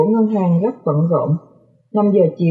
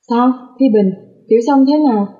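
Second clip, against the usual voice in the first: higher-pitched, worried questions; anxious questioning; 4 semitones higher than usual. Acted. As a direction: ask urgently, fearing bad news. Anxious man arrives asking after patient. (hỏi dồn, lo lắng)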